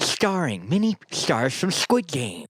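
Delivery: slow, high dramatic trailer read; movie trailer voice. Pretend. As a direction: announce the cast like a trailer. Trailer narration.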